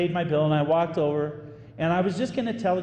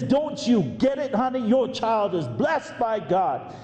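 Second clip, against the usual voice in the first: a hint of a thick Southern Louisville drawl, higher and slow; 4 semitones higher, slower than usual. Older friend urging birthday girl at the table, mild Southern drawl. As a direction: lightly imitate a Louisville lady, higher and slower. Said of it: "in her thick Southern Louisville drawl".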